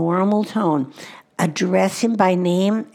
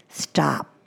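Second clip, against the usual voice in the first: soft whispered stop; 4 semitones lower than usual. Shown as a demonstration. Mother to toddler, a soft low whispered stop. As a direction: Stop whispered, softer and lower. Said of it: "Give the command".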